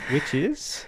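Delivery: dramatic stage whisper. Acted. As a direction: hush it like a secret reveal. Teasing the movie title.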